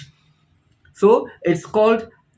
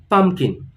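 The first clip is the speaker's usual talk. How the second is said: pumpkin with PUMP stressed, falling; teacher demonstrates stress in pumpkin; stress on first part. Shown as a demonstration. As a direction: hit PUMP in pumpkin, kin light. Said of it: "the stress is on the first part of the word".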